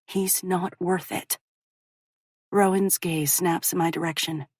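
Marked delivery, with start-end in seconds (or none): 0.0-1.4 quiet, slow, drained of feeling; flat, emotionless. Acted. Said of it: "keep my voice devoid of emotion".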